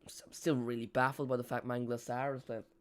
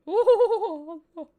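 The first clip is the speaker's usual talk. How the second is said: high drawn-out hoot; 11 dB louder than usual. Acted. End of mock commentary on free kick.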